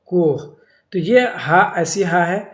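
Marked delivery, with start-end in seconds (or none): 0.0-0.4 کوہ with held o, then a breathed h; sounded final h. Shown as a demonstration. Teacher repeating the example for students, sounded final h. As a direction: pronounce the last ہ of کوہ. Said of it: "پڑھی بھی جا رہی ہیں".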